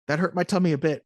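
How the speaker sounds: hammed-up hurt kid voice; mock whiny kid complaining about a tummy ache; mock little-boy whine. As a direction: play Tim whining mildly about his tummy. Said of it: "he was like".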